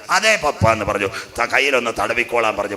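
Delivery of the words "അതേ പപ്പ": high-pitched put-on answer to father; Jacob's disguised voice. Son posing as his elder brother to fool his father, disguised high voice. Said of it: "ആ ശബ്ദം മാറി".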